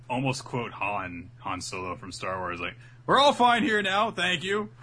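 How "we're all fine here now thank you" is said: high, loud fake all-is-well; overdone reassurance to cover up; bluffing reassurance. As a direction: bluff that everything is fine, pitched up. Pirate bluffing like Han Solo.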